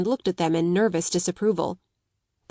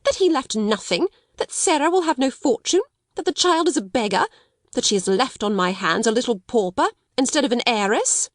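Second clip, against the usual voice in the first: cried out; 4 semitones higher than usual. Acted. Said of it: "she cried out".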